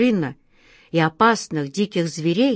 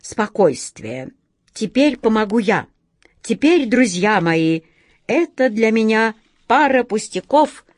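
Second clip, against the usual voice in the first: торжествующе; 4 semitones higher, 3 dB louder than usual. Acted. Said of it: "с торжеством сказал".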